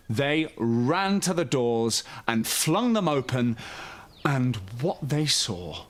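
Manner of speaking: gentle, lively storybook reading; bedtime story narration. A narrator's reading. Host reading a bedtime story to young children, soothing storyteller. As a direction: read it like a children's picture book at bedtime.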